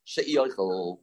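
"she'i oichel" with "she'i" as "sheh-EE"; "she'i oichel", the shin followed by a distinct ee; demonstrated pronunciation. Shown as a demonstration. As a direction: sound the separate ee in "she'i". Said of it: "has to be pronounced".

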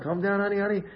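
lightly coaxing, no push; soothing wife. Acted. Wife calming her husband, gently soothing. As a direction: talk someone down from an outburst. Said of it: "If you tell him like this".

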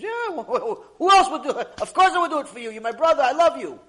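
high, loud laughing reassurance; laughing loud I love you; laughing affection. Acted. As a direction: laugh off the question, brother.

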